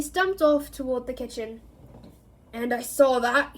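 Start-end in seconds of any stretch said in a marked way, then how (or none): 2.5-3.6 irritable. Acted. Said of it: "he added irritably".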